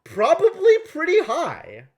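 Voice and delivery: loud, high, worked-up commentary; excited deliberating. Real, not acted. Player weighing an obscure reference, loud excited voice. Reader carried away over the game.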